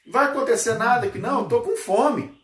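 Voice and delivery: high-pitched mock yell after someone leaving; hungry disciple's hammed-up holler; acted calling out. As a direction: call out in protest, pitched well up. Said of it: "Ele gritou lá".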